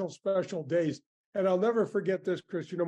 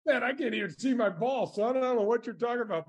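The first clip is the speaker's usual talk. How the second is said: lightly mimicked film star, pitched higher; retold reply in a higher put-on voice; Sean Connery; 6 semitones higher than usual. Golfer imitating his famous playing partner in the dark, higher mimicked voice. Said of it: "Sean Connery".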